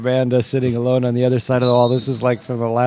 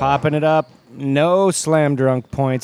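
play-by-play. Acted. Mock play-by-play call.

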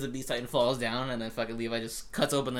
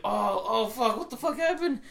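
high-pitched, louder shocked cry; mock panic; 11 semitones higher, 5 dB louder, slower than usual. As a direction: imitate someone suddenly finding limbs gone. Acted quote, Berthold missing limbs.

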